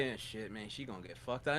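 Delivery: low, soft lazy mock comment; lightly voiced chatter from the next seat; mumbled low impression; mimicking a moviegoer.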